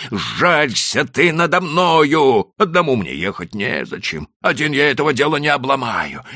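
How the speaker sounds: desperate man pleading for his horse; begging landowner. A narrator's reading. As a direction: beg him with trembling urgency. Chertopkhanov begs, trembling.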